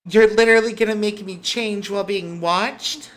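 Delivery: high, loud, rising protest; outraged disbelief. Acted. Girl objects to being followed, high and outraged. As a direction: object in affronted exasperation.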